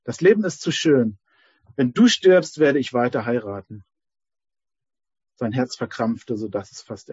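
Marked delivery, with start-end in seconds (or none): 0.0-3.8 calling out. Acted. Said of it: "rief die dritte Frau".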